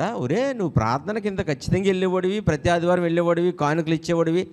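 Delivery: high, incredulous needling voice; a hammed-up scolding pal; mock indignant friend. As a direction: tease him like an old buddy in hell. Dead believer's friend in hell speaks.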